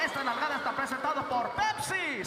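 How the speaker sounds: fast, loud, booming Spanish radio voice. Acted. Radio host talking to his wife in bed, booming DJ voice. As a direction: hype it like a late-night DJ ad.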